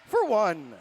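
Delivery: ghost voice. Pretend. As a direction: draw it out like a ghost. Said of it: "announce all of the skaters on Ghosts with the Ghost voice".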